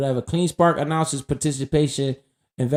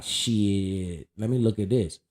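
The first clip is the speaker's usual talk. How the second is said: mock excitement; 6 semitones lower, 6 dB quieter than usual. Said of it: "I'm like".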